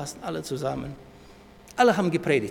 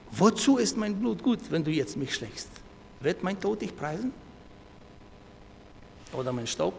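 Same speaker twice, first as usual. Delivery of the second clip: psalm plea; 5 semitones higher, 3 dB louder than usual. Acted. Recites psalm as David's plea.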